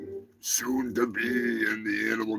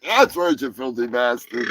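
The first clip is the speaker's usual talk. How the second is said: mock hype. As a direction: belt it like a hype man. After jingle, hyping segment.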